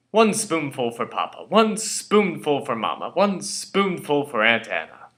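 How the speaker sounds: singsong spoon-feeding, each line falling; lightly voiced coaxing parents. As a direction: coax a child to swallow, drawing it out. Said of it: "They would open my mouth and tell me".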